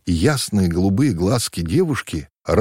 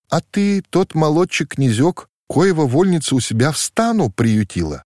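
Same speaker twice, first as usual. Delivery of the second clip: put-on higher, perky questioning girl; bold question; 8 semitones higher than usual. A narrator's reading. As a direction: ask him boldly and brightly. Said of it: "уже бойко спрашивала его Танюша". (бойко, задорно, чуть выше)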